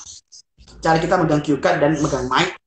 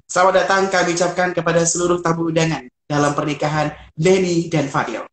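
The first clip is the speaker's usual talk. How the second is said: smiling emcee greeting. Shown as a demonstration. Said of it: "Jadi, senyum".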